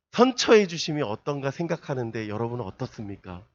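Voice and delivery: overly formal, pompous plea to mom; mock flowery request to mother. Preacher mocks an over-polite plea to a parent, pompous. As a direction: lay the flattery on thick. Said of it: "그렇게 기도합니까?".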